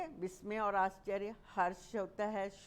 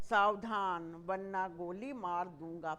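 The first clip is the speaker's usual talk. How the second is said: stern warning. Shown as a demonstration. Teacher acting out a guard's warning. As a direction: threaten like a guard. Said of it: "चेतावनी के लिए".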